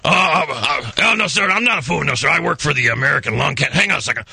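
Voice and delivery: lightly disguised polite official; a hint of a fake Lung Association rep; prank caller voice. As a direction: play a stiff anti-smoking caller. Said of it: "Let's gotta get a voice".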